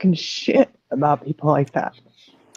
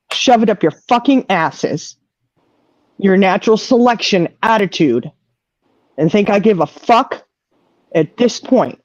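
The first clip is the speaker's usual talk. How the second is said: real angry rant; 3 semitones higher than usual. Real, not acted. Grieving sister lashing out at chat's cruel comments, real anger. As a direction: let it out at the people who mocked him. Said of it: "I'm pissed".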